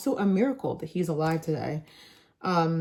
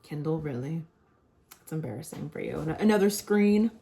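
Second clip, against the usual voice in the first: mocking. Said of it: "I always used to make fun of people that had Kindles".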